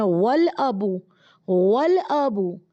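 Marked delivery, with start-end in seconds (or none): 1.5-2.6 वल अबू said slowly, the alif swallowed into वल; slow, careful Arabic demo; alif dropped after waw. Shown as a demonstration. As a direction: stretch out वल अबू for the class. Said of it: "वाव लगा देते हैं".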